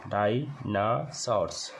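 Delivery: डायनासोर्स said slowly as dai-na-sors, with the first vowel as डाई; pronunciation demo. Shown as a demonstration. Teacher modelling डायनासोर्स for the class, slow. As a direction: draw out डायनासोर्स, opening on डाई. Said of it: "जैसे डाई".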